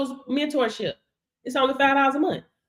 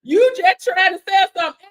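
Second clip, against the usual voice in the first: mock complainer; 5 semitones higher, 8 dB louder than usual. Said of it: "when y'all be telling people".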